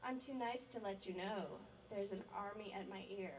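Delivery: measured, emphatic poetry recital; deliberate spoken-word delivery, key words pushed; poem reading. Acted. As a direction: read it out as a wry complaint in verse. Reads poem about humming coworker.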